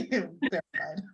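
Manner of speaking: laughing nervously through words; jittery, giggling confession. Real, not acted. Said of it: "This is my nervous laugh".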